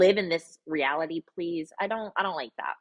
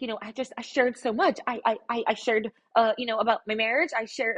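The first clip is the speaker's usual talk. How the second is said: mock whiny imitation; 5 semitones higher than usual. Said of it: "So she's like".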